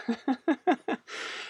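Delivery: high, soft mock chortle; snooty French laugh. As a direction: laugh like a haughty French snob.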